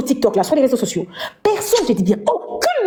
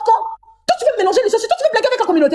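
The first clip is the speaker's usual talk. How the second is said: mock taunt; 5 semitones higher than usual. Mimicking the rival's mocking taunts.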